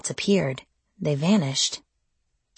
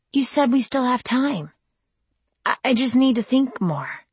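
cornered and desperate; 8 semitones higher than usual. A narrator's reading. Stalling, desperate.

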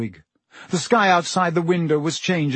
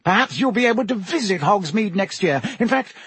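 brisk Minister voice; 6 semitones higher than usual. A narrator's reading. Fudge voiced by narrator.

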